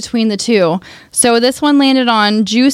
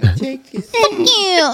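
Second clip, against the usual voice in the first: lazy fuck you; 6 semitones higher than usual. Shown as a demonstration. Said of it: "This is just my lazy one".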